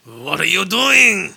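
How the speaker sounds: slow, loud, hammed-up French; French accent. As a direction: stretch each word in fake French. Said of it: "let's do a French accents".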